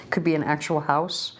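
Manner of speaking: talking through hiccups; words broken by a hiccup. Real, not acted. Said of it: "I have the hiccups".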